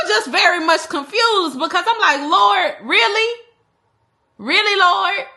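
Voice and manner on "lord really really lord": high, slow, drawn-out disbelief to God; really, Lord, stretched out high; mock exasperated prayer, high and slow; exasperated plea.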